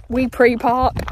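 slow Wee Pre Park split into three words; wrong pronunciation. Retold or imitated. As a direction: drag out Wee Pre Park like a confused tourist. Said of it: "once somebody called it".

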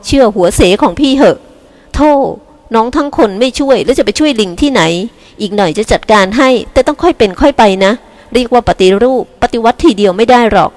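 lightly voiced cheerful older sister; a hint of a carefree big sister; breezy big sister. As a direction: wave off her worry confidently. Elder sister breezily reassures.

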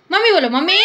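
loud urging call. Real, not acted. Mother calls out loudly to make the parrot say mummy. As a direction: push the bird to answer.

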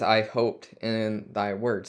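"I hoped in thy word" said slowly, each word set apart; slow right down to point out the change; slow, pointed reading. Shown as a demonstration. Pastor pointing out the key verse to the congregation, slowly. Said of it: "I wanna, uh, point out, uh, this, uh, specific part".

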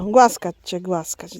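ordinary talk, nothing marked

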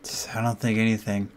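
hushed, tense and fast; scared horror game streamer. Real, not acted.

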